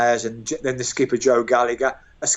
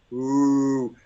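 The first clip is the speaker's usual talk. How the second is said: crowd groan of despair. Retold or imitated. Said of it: "a groan of despair from the fans".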